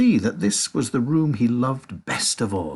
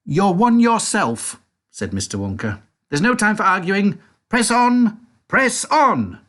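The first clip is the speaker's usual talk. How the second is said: high, louder brisk comeback then urging; tart Wonka retort; 9 semitones higher, 5 dB louder than usual. A narrator's reading. Wonka retorts to Violet, high and brisk. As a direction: snap back and push on.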